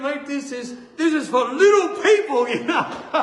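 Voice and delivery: high, loud protest ending in laughter; comic outrage. Retold or imitated. Patient complaining to mate, loud comic outrage. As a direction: shout it in amused indignation.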